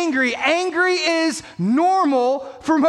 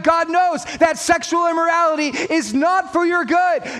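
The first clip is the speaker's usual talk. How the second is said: insistent, driving sermon delivery, slightly raised; impassioned preaching; 3 semitones higher than usual. Real, not acted. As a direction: build emphatic, repeated declarations to the congregation. Preaching at full force.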